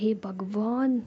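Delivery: slow, drawn-out whispered exasperation; exasperated sigh. Acted. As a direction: groan it out, fed up with her. Ruhi holds her head. (परेशान होकर धीमे से कहना)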